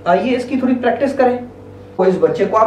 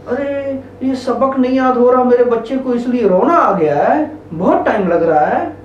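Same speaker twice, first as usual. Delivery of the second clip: understanding acknowledging. Shown as a demonstration. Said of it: "अब इस बच्चे को आप क्या कहेंगे".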